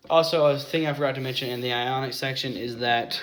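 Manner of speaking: long line on one breath, air running out. Real, not acted. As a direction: push through the end of your breath. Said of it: "I'm gonna run out of breath".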